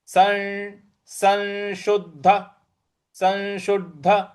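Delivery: संशुद्ध said as sanshuddh; संशुद्ध with the anusvara as a clear n; slow संशुद्ध, n before श. Shown as a demonstration. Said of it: "अनुस्वार है उसका उच्चारण हमें न ले आना है".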